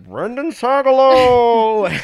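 long, loud, high yell of a full name; shouted name. Retold or imitated. Friend yelling his full name after him. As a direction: call him out loud across the room.

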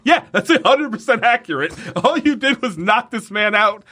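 sarcastic agreement. Retold or imitated. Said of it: "And I was like".

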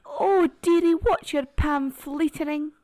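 high, loud posh Edinburgh lady; hammed-up Edinburgh dame. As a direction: stretch it out in a fussy Edinburgh accent. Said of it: "I'm gonna do two accents".

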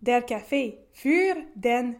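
slow, careful German accent; attempted German accent. Shown as a demonstration. Host reads the German website aloud, labored German accent. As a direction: read it out in your best amateur German. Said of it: "Avec mon meilleur accent".

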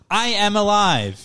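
slow, high, word-by-word declaration; self-aware dog. Retold or imitated. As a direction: imitate a talking-button dog coming alive. Voicing a self-aware button dog.

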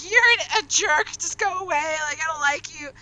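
high, flustered mock insults; playful embarrassed scolding; embarrassed Chopper. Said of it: "He's embarrassed, he's adorable".

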